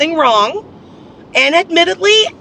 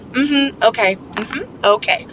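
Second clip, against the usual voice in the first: flat, minimal mm-hmm and okay; bored yes-yes to end the call; just humoring him on the phone; curt phone replies; slower than usual. Retold or imitated. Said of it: "is pretty much the most I'll say".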